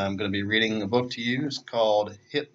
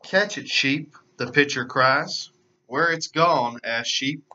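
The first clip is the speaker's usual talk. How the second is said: put-on lively storybook narration for kids; animated read-aloud voice; children's story reading. A narrator's reading. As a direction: read it like story time for little ones. Reads picture book to children.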